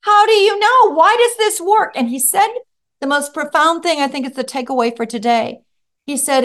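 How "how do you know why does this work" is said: high, laughing delight; asking through the laughter. Real, not acted. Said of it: "laughing at the kid".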